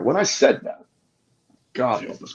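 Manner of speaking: real excitement breaking through the story; getting passionate. Real, not acted. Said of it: "man, I'm getting passionate".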